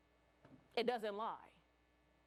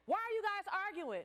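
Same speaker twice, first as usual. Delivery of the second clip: principal's question; 8 semitones higher, 4 dB louder than usual. Retold or imitated. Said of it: "the principal was like".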